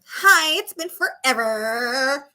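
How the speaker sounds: mocking Valley Girl. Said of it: "Even talking whiter".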